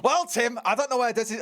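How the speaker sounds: put-on a Mancunian accent that is falling apart; failing Mancunian accent. Caster losing his grip on a mock Mancunian accent. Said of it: "I can't do the accent anymore".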